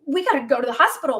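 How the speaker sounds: fast, urgent re-enacted alarm; hurried mock-panicked plea; retold panic. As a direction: rush it out as if panicking. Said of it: "I'm, like, panicking".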